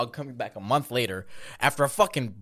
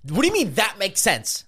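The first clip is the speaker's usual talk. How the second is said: incredulous; 7 semitones higher, 4 dB louder than usual. Real, not acted. Incredulous challenge.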